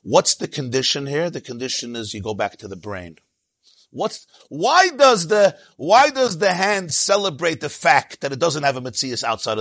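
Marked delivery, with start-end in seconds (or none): 3.9-9.6 emphatic. Real, not acted. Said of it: "emphatic rhetorical question".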